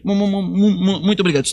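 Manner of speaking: mimicking a stammer, voice otherwise his own; imitated stutter. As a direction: repeat the first syllable over and over before the word. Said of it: "E ele era mais gago que eu".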